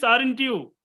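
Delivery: "aren't you" as a checking tag, high then falling; question-tag tune. Shown as a demonstration. Teacher quoting the question tag, checking tune on "aren't you". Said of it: "Question tag".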